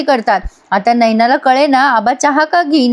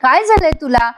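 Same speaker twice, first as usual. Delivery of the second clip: mock concern; 4 semitones higher than usual. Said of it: "हा मुद्दाम त्रास देतोय".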